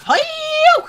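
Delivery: high loud hi-yo; battle cry. Acted. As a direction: yell it like a karate cry.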